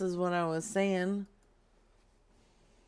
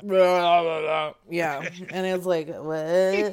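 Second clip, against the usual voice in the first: Mister Biggs impression; 3 semitones lower, 4 dB louder than usual. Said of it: "the best Mister Biggs impersonation ever".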